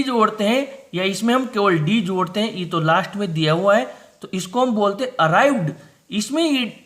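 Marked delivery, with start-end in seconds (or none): 5.2-5.7 अराइव्ड ends on a plain d; arrived with d ending. Shown as a demonstration. Teacher showing the d ending, careful demo. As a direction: say अराइव्ड with a simple d, no extra syllable. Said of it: "इसमें आवाज़ निकली केवल ड".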